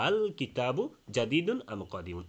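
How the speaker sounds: slow recitation, আল with a firm first hamza gliding over a light second; tashil. Shown as a demonstration. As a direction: let the second hamza in আল blur halfway into the vowel. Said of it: "এটাকেই তাসহিল বলা হয়".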